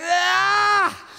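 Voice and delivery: high, drawn-out wailing shout; strain, then wail the word like a desperate toddler; imitated child crying out. Father imitates his son calling for him, crying out. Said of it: "hear him crying out for me".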